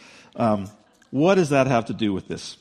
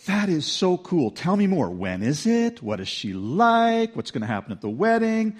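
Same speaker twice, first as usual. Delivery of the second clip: eager and high, tumbling questions; excited gushing; 6 semitones higher than usual. Retold or imitated. A listener imagining the wedding, thrilled and eager. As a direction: gush like a thrilled friend. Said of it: "Some of you are going".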